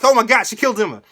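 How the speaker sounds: loud, high shocked cry; retold horror. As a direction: blurt it out in horror. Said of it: "I was like".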